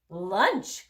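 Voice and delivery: surprised cry. Acted. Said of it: "cried Missus Blue".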